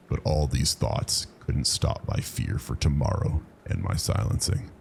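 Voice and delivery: ordinary delivery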